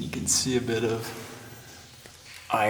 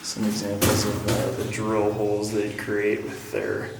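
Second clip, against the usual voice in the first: echoing off rock walls; echoey; 4 dB quieter than usual. Real, not acted. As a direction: speak in an echoing tunnel. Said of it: "It's so echoey in here".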